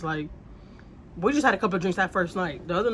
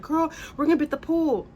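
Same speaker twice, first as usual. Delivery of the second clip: imitating drunk neighbor; 9 semitones higher than usual. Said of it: "And she's like".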